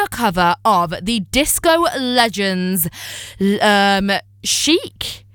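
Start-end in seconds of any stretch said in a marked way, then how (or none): 4.4-5.3 the band name with a sharp, high questioning rise; unsure rising tune on the band name. Real, not acted. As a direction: says the band name as if asking. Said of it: "I don't know why I said that like a question".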